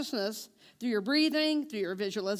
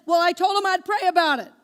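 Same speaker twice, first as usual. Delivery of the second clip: friend's hesitant reply; 5 semitones higher, 9 dB louder than usual. Retold or imitated. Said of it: "And she said".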